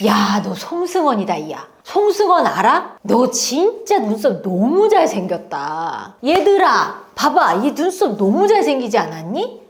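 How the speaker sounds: lively, gushing praise for a student's looks; a teacher fussing over a pupil. Retold or imitated. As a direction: heap compliments on the kids. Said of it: "그러면서 이제 계속 이렇게 칭찬".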